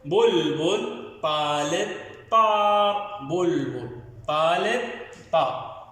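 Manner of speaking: slow, sing-song reading for pupils; reading aloud to children. Shown as a demonstration. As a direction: read it out like a primer for first graders. Teacher reads the reading passage aloud. (قراءة إنشادية بطيئة للأطفال)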